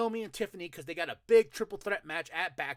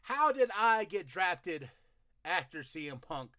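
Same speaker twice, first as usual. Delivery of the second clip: loud, slow indignant complaint; angry rant; 3 semitones higher, 8 dB louder, slower than usual. Retold or imitated. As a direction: rant it out like a furious wrestler. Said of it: "He's angry".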